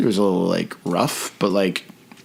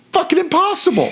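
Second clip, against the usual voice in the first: exasperated; 3 dB louder than usual. Real, not acted. Exasperated rant about driver.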